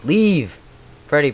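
loud, high yell that falls away; shouted command. Real, not acted. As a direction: shout it to chase off an intruder. Yelling at game animatronic to leave.

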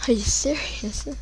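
breathless whisper of disbelief. Real, not acted. Gamer whispering to himself in disbelief. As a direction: whisper it to yourself, stunned. Annoyed, said aloud then whispered.

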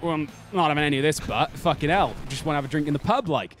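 half-Welsh grumble of the saint; almost Welsh accent. Acted. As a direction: lightly put on a Welsh accent. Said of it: "That was so, like, almost Welsh".

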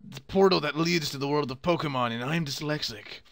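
big booming game-announcer hero. Acted. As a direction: announce it like a heroic guide. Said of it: "go ahead with the hero voice".

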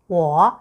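我 said as wǒ with a low dipping tone; Chinese 我. Shown as a demonstration. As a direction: Mandarin 我, low falling-rising tone. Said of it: "여기서 인칭". (중국어 我를 3성으로 또렷하게)

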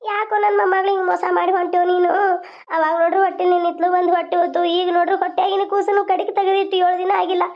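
chanted mourning in long running phrases; keen steadily, phrase after phrase; keening lament. Acted. Grandparent reproaching God over the dead grandchild, chanted keening.

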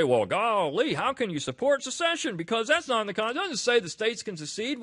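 high-pitched, mock-astonished protest; incredulous objector. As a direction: imitate a scandalized objector, pitched well up. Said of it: "people say".

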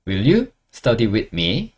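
very slow rising question; slow model question. Shown as a demonstration. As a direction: ask it slowly for learners. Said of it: "나랑 같이 공부할래?". (천천히 묻는 말투)

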